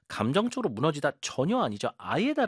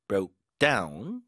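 "down" hit harder than "Broke"; stress on down; 3 semitones lower than usual. Shown as a demonstration. Teacher showing the stress on "down". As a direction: lean on "down" at the end. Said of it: "뒤쪽에 힘 잘 주세요".

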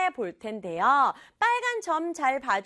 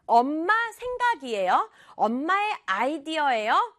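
lightly acted child's challenge; accusing; 3 semitones higher than usual. Child running to the kitchen to question Mom, accusing. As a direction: press Mom for an answer. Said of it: "라고 따지면서 부엌으로 뛰어갔어요".

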